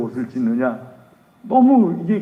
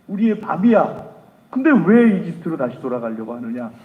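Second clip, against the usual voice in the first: angry rallying cry; 2 semitones higher, 4 dB louder than usual. Acted. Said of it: "하면서 막 화를 내면서".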